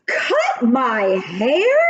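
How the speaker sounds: slow, stretched, shocked exclamation; exclaiming. Acted. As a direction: drag it out in disbelief. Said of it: "she exclaimed".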